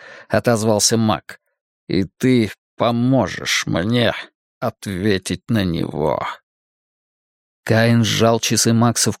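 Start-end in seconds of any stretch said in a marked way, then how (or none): 1.9-6.2 sinister magician. Acted. Villain Cain speaks slowly.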